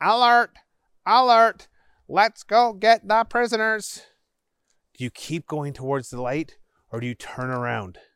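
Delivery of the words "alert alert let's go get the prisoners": very high, flat, monotone robotic voice. Narrating a sewer adventure, voicing robots heard near the light, robot voice. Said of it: "you start hearing robot voices saying".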